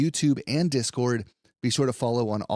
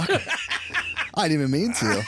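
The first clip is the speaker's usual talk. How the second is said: laughing; 6 semitones higher than usual. Real, not acted. Laughing at being imitated.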